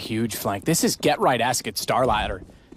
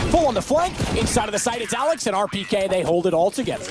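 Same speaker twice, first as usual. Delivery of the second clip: excited; 8 semitones higher than usual. Real, not acted. Caster calls the winning flank.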